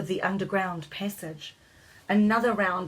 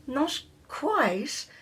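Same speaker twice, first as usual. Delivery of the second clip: yelled; 7 semitones higher than usual. A narrator's reading. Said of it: "yelled a Scottish fairy".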